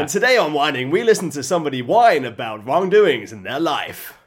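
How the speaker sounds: lightly dramatic episode intro; mock show announcer. Introducing their parody whining show, mock announcer. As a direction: present it as a measured show opener.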